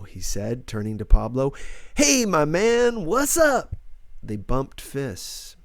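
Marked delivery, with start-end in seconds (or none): 2.0-3.7 high, slow, easy "hey my man"; lightly voiced friendly dude; a hint of a casual guy greeting. A narrator's reading. Angel greeting Pablo, a relaxed, friendly greeting.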